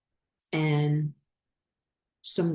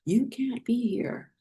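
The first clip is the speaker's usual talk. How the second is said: higher-pitched imitation of an accusing woman; retold confrontation; 5 semitones higher than usual. Hotel employee confronting a woman sleeping in her car, mock accusing. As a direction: mildly mimic her challenge in a higher voice. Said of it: "she had, like, a Spanish accent".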